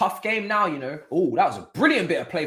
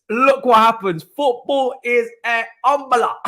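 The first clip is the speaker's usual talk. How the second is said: high, drawn-out theatrical gasps of disbelief; hammed-up mock shock; 5 semitones higher, 6 dB louder than usual. Watching Casemiro get sent off, mock-scandalised high drawn-out exclamations. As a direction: play a scandalised old-timer clutching his pearls.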